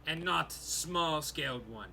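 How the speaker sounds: a stern orc addressing the stranger; lightly voiced orc. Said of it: "the orc say".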